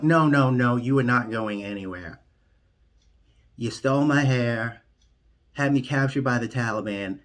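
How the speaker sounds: loud, indignant protest; mock outrage. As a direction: shout him down, demanding he stay. Refusing to let Biden leave.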